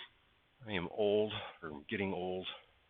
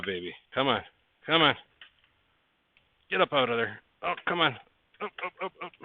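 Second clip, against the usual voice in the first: higher pleading come on, up up up; coaxing; 6 semitones higher, faster than usual. Real, not acted. Builder coaxing a stuck track piece out, higher and pleading. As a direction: urge the stubborn piece out.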